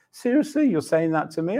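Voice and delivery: high, incredulous "seriously"; mildly offended. Retold or imitated. Believer answering God's challenge, a little offended. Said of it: "wanted to deny it or to be a little offended".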